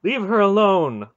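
protective, sharp order; sharp command. A narrator's reading. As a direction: cut in sharply and firmly. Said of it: "Aunt Paul said sharply".

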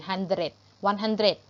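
HUNDRED and ONE HUNDRED ending in a short "dret"; short pronunciation. Shown as a demonstration. Teacher drilling pupils on hundred, short final vowel. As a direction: keep the last syllable of HUNDRED short. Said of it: "ออกเสียงสั้นไปเลย".

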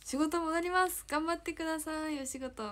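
high, lilting send-off; cheering someone on. Real, not acted. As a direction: send them back to work with high-pitched encouragement. Cheering on a viewer returning to work.

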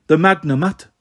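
despairing wail. Acted. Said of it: "A ghost wailed in despair".

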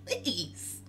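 high, strained, hammed-up begging; mock desperate plea. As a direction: squeal it through a laugh, as if knocked back. Acts plea after being knocked back.

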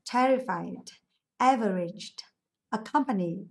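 "terrified", "averaged", "accompanied" ending in voiced /d/; final d sound. Shown as a demonstration. Teacher contrasts other answers for class, final -ed pronounced /d/. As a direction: say each word separately, -ed pronounced /d/. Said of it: "Các từ lại mình sẽ đọc là the".

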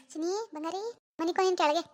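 soothing the little one, pet names; tender baby talk. Acted. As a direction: coo gently to the baby. Mother soothing her baby. (ಮಗುವಿಗೆ ಮೃದುವಾದ ಮುದ್ದುಮಾತು)

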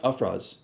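Afraaz said as ah-FRAHZ, stress on the second syllable; correct name pronunciation. Shown as a demonstration. To people who mispronounce his name, correct pronunciation. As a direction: teach the right way to say Afraaz. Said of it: "the emphasis is on the".

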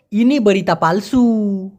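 very slow, careful Malay; slow Malay phrase. Shown as a demonstration. Teacher introducing Malay phrase, very slow. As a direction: say it slowly for learners. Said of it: "Malaysian ভাষায় বলতে গেলে".

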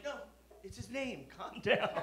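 laughing, slow, pleading protest; chuckling calm down. Retold or imitated. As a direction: laugh through it while calming her. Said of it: "I was like".

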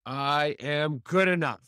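slow, firm closing affirmation; with belief. Shown as a demonstration. Host closes affirmation slowly with conviction. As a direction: settle into I am good enough slowly. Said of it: "say it with total belief in yourself".

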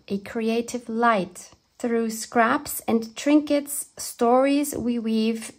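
measured, lilting verse reading; poem reading. Real, not acted. Reading a friend's poem to viewers, in heartfelt verse. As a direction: read the verse phrase by phrase, heartfelt.

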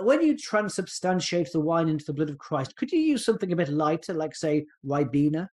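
lightly put-on posh English accent; a hint of a posh impression; generic posh voice. Doctor querying a priest about communion wine, lightly posh accent. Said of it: "I'm doing my generic posh voice".

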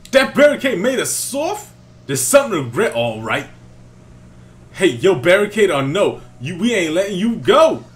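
high, loud rhyming taunt; hammed-up grunt rap; Team Skull grunt. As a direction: spit it like a rapping thug.

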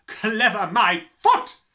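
slow, loud scornful shout. Acted. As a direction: scoff it out loud. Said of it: "the Trunchbull shouted".

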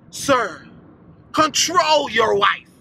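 telling off the husband, slowly; mock call-out. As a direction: pretend to scold Jonathan. Calling out to Jonathan.

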